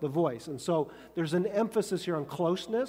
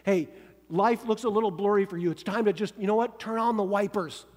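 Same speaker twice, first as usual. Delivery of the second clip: coaxing pep talk; 3 semitones higher, 3 dB louder, faster than usual. Retold or imitated. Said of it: "Or you go".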